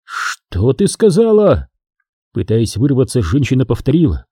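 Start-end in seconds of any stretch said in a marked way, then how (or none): 0.0-1.7 higher, slow and halting, caught off guard; he stumbles, asking in disbelief; slow astonished ask; stunned question. Acted. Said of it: "Эдел запнулся".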